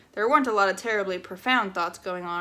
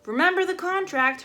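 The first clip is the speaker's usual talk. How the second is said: mother shouting; 9 semitones higher, 4 dB louder than usual. Acted. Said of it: "her mother shouted".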